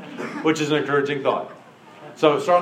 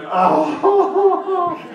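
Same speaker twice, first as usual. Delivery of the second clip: much higher, small crushed oh; a tiny deflated oh, half laughing; 13 semitones higher, 3 dB louder than usual. Retold or imitated. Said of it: "I'm like".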